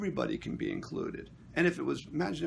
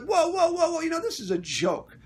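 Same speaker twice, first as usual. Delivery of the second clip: very high, loud whoas; high-pitched mock outcry; retold loud interruption; 9 dB louder than usual. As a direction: break in to shut him down, re-enacted. Re-enacting his second interruption.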